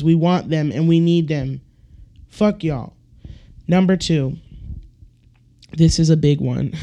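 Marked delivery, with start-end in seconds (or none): 5.8-6.7 lightly Australian, a hint of Steve Irwin; accidentally sounding like a nature host. Real, not acted. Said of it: "I said that like Steve Irwin".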